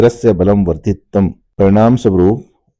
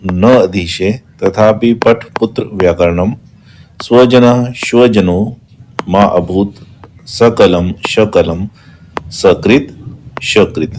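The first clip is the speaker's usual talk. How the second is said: slow, deliberate reading of the verse; verse recitation. Shown as a demonstration. Teacher reciting the verse to the class slowly. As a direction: stretch each pair of words slowly.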